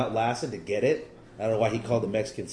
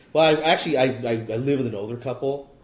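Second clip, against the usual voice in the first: loud, half-laughing cover story; sheepish laughing answer; 2 semitones higher, 6 dB louder than usual. Retold or imitated. Telling a bar stranger he lives with a couple, laughing. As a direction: laugh through the awkward excuse.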